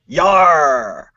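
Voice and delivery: pirate. Acted. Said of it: "Talk Like a Pirate Day".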